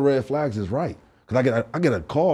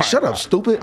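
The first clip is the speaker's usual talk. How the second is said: high, sharp self-scolding snap; scolding himself; 10 semitones higher, 3 dB louder than usual. Retold or imitated. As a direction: tell yourself off, hissing at your own panic. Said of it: "I'm talking to myself".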